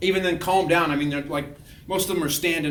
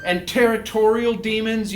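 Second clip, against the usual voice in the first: raised, proclaiming voice; mock deliverance invocation; 5 semitones higher, 5 dB louder than usual. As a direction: declare it like an exorcist. Re-enacts binding incantation.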